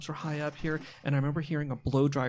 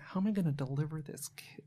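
whispered thought; 5 dB quieter than usual. Retold or imitated. Thinking aloud in a dream.

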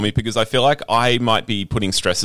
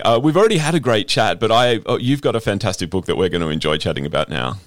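radio intro. Acted. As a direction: kick off the show with energy. Radio-style show intro.

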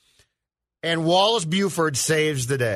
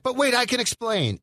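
pleading woman quote; 6 semitones higher than usual. Retold or imitated. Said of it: "she's like".

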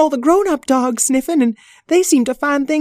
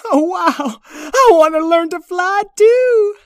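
high, louder eager pup; excited puppy voice; 8 dB louder than usual. Acted. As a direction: climb higher with excitement. Puppy wants to fly.

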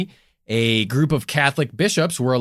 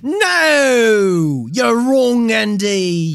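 mock loud correction; 8 semitones higher, 5 dB louder, much slower than usual. Mock game-show correction.

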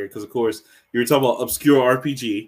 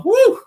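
very high, loud woo; excited whoop; 6 dB louder than usual. Real, not acted. Cheering the long-awaited game five, excited whoop. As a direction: let out a high celebratory whoop.

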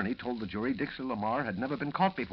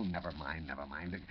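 fading mutter; 8 semitones lower, 10 dB quieter than usual. Acted. Editor giving up flustered.

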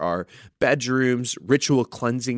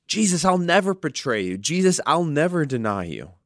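Peter's bold vow, pitched up at first; bold proclamation; 4 semitones higher than usual. Acted. Peter on the surface pledging loyalty to Jesus, bold proclamation. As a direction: proclaim it as a confident, mildly acted pledge. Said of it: "Peter made bold proclamations".

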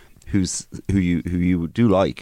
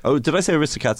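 surprised; 7 semitones higher, faster than usual. Real, not acted. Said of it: "Uh, Aristocrats".

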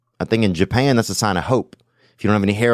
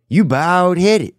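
mock sing-song; 8 semitones higher, 3 dB louder, much slower than usual. Repeated mock chant.

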